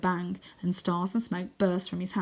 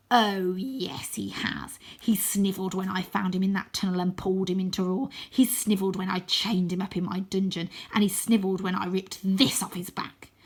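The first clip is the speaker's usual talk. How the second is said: gloating scarecrow villain. Acted.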